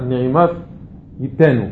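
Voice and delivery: "נעימה ייתנו" set apart from what came before; separate second phrase. Shown as a demonstration. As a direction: start afresh on "נעימה" after a break. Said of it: "הפסקה".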